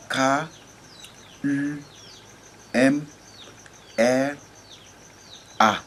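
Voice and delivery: K U M R A spelled letter by letter, long pauses between; spelled phonetically. Shown as a demonstration. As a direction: spell K U M R A, one letter at a time. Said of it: "phonétiquement, s'écrit avec". (épeler K U M R A lettre par lettre, avec des pauses)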